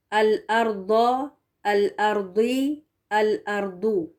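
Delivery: الارض، الارضی، الارضو, each with a thick emphatic d; careful model reading, Daad kept heavy in الارضو. Shown as a demonstration. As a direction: drill each ending on a heavy ض. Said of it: "ٹھیک ہے، یہ مفخم پڑھنا ہے".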